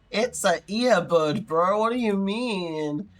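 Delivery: drawn-out, incredulous protest; mock exasperated. Cousin scolded about the earbuds, acted exasperation. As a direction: stretch it out like a put-upon teen.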